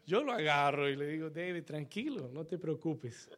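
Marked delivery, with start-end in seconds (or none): 1.3-3.3 soft, lower reassurance; gently calm someone who came in crying; acted pastor's soothing tone; consoling. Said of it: "Yo trato de consolarlo".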